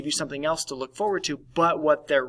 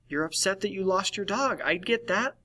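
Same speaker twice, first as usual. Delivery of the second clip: normalizing; 5 semitones higher than usual. Shown as a demonstration.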